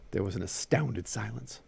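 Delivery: animated story reading with Southern dialogue; story narration. A narrator's reading. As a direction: read the tale aloud, giving each figure life.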